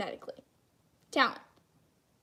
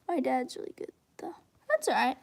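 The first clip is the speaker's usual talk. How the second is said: whispering. Real, not acted. Whispered aside while drawing.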